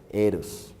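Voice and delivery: low, breathy-soft seductive hush; a low, soft, sultry Eros. Acted. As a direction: purr the word like a tease.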